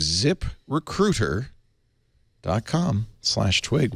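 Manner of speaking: slow spelled-out URL. Shown as a demonstration. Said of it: "repeats URL slowly".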